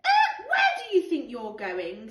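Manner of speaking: mock-stern child's challenge; indignant challenge. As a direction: catch him sneaking in. George challenging Luther.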